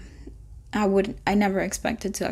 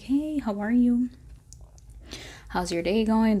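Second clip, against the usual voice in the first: friendly doctor. Retold or imitated. Doctor greeting a new patient at the office, imitated friendly. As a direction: retell a doctor's friendly hello. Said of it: "the doctor was really friendly".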